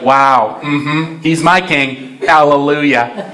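slow, drawn-out Southern hallelujah; Southern accent. Acted. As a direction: play an approving Southern churchgoer, lightly. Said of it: "you have a southern accent".

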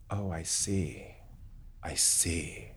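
very soft, low and slow; hushed realization. Retold or imitated. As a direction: let it dawn on you, almost under your breath. Acts out quiet realization facing monster.

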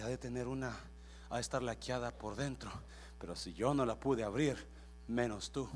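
lightly acted worn-out big dog; tired and sweaty. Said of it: "Ya bien cansado y sudado". (perrote cansado, voz baja)

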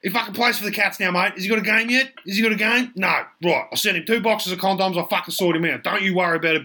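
high brash bloke, reassuring crudely; Duck's voice. Acted. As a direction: keep it high and matey. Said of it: "And Duck's like".

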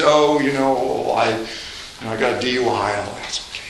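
low, offhand mumble that sinks to near silence; casual confession. Retold or imitated. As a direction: shrug off a DUI like it is nothing. Confession skit at a party.

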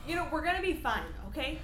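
high, laughing, forced calm; nervous laughing reassurance. Acted.

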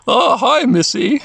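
high creature voice; English-dub Numemon. Acted. Numemon greets Mimi from vending machine, creature voice. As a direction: greet her as a high-voiced little monster. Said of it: "I like the Numemon voice in the English".

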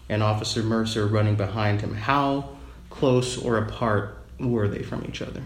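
digitally disguised voice; altered voice. Real, not acted. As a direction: voice run through a pitch changer. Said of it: "you'll hear it go from my normal voice".

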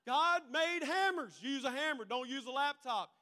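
lecturing friend. Acted.

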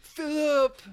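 high, loud British cry; British accent. Acted. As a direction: call out in an exaggerated British accent. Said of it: "you still do accents".

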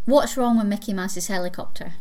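put-on Scottish accent. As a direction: joke told in a light Scottish accent. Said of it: "jokes that only work in a Scottish accent".

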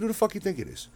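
high, sarcastic comeback; mocking who-do-you-think reply; snappy retort. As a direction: fire it back up high. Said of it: "I said".

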